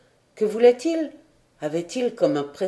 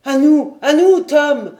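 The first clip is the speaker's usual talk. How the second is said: loud, higher ringing call; captain hailing the ship in a ringing shout; 6 semitones higher, 8 dB louder than usual. A narrator's reading. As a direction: call out across the water. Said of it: "d'une voix éclatante".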